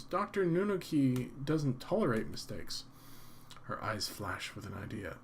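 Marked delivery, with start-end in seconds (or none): 0.0-2.8 worried woman. Acted. Clerk still speaking.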